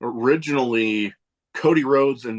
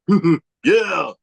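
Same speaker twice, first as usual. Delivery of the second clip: imitated excited commentator grunts; mock a hyped-up commentator's drawn-out yeah; mimicked commentary catchphrase; Booker T; 3 semitones higher, much slower than usual. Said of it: "that crap that he does".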